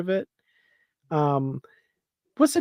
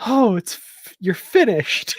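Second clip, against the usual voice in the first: imitating the doctor; 7 semitones higher, 4 dB louder than usual. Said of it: "the doc is like".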